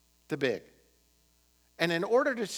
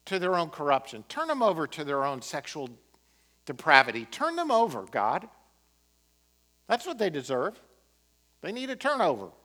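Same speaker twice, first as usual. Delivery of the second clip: mock self-righteous zeal. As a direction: ham up the smug zealot calling for judgment. Mocking self-righteous churchgoer.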